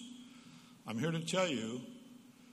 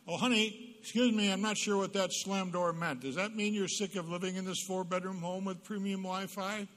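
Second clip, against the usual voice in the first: higher, syrupy mock-polite; sarcastic sweet parent; 6 semitones higher than usual. Parent answering slammed door, sugary sarcasm. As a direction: kill them with sweetness. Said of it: "How about this one?".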